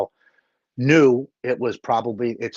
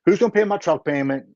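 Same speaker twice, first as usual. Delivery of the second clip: higher-pitched protest, arguing with yourself; retold excuse-making; 7 semitones higher than usual. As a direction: re-enact talking yourself out of it. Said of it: "I'm talking myself out of going".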